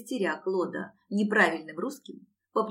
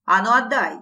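loud, raised-pitch squawk; squealing demand; 3 semitones higher, 9 dB louder than usual. A narrator's reading. Long-nosed lad demanding his guitar back, squealing. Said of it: "верещал носатый".

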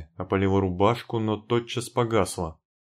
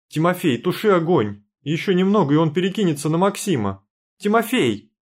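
high, loud frantic cries; a frightened girl shouting higher and louder at Timofey; panicked shouting; 6 semitones higher, 4 dB louder than usual. Acted. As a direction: yell for help, near hysteria. Heroine panics over wounded Maksim.

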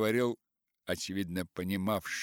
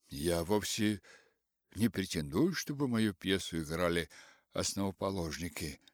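usual speaking voice

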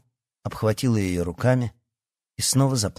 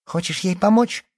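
high-pitched, taunting question; raised, goading voice; shouted challenge; 10 semitones higher, 3 dB louder than usual. A narrator's reading. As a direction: call it out as a dare. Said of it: "крикнула Лия".

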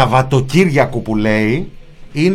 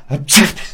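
sudden real sneeze; sharp sneeze into the mic; 3 semitones higher than usual. Real, not acted. Panelist sneezing on an open microphone, sneeze. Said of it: "για να φτεχνιστείς".

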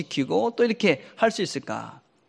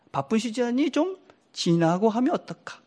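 gentle suggestion; 4 semitones higher, 5 dB quieter than usual. Shown as a demonstration. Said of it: "어떻게 얘기하라는 것이냐?".

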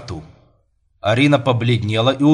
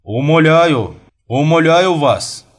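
higher, swelling, drawn-out entreaty; fervent pleading; 5 semitones higher, 5 dB louder, slower than usual. Acted. Priest kneeling to beg for a bride, fervently imploring. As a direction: beg with all your heart.

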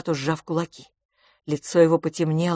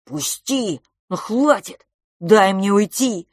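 struggling cries; 3 semitones higher, 5 dB louder, slower than usual. Acted. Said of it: "отбивался Франц".

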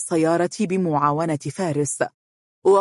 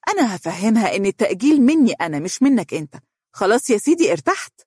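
higher-pitched, smiling reassurance; placating smile; 7 semitones higher, faster than usual. A narrator's reading. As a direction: soothe his anger in a raised pitch. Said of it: "بابتسامة تريد بها امتصاص غضبه".

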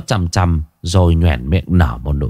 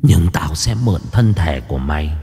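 hissing through teeth; 5 semitones lower than usual. A narrator's reading. Ghost woman threatens to borrow the man's body, hissing through her teeth. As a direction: hiss it low through clenched teeth. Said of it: "nói như rít qua kẽ răng".

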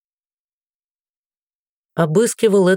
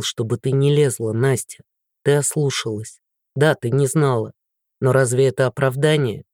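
lower, grave fatherly voice; stern father; 4 semitones lower than usual. Acted. Father scolding his daughter, low and grave. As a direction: weigh each word, low and grave.

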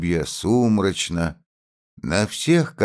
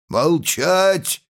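shouted command; 11 semitones higher than usual. A narrator's reading. Constable silences Rybin.

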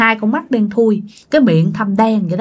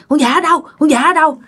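dazed demand; 6 semitones higher than usual. Retold or imitated. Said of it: "ba ngơ á các bạn".

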